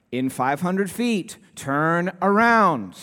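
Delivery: the nagging navigation voice won't give up; mock GPS insisting; insistent GPS voice. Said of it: "looks around to the next U-turn".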